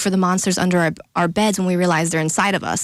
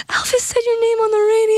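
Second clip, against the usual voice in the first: dad's excited report. Retold or imitated.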